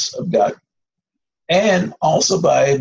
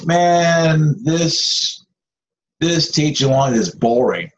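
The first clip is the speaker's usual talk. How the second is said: mock complaining; 3 semitones higher, slower than usual. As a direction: whine about a boring sermon. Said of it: "don't be a thermometer speaker like".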